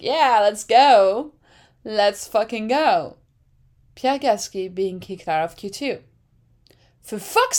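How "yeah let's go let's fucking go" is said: louder, drawn-out cheer; slow hyped cheer. Retold or imitated. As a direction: savor it, slow and loud. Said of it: "I'm like".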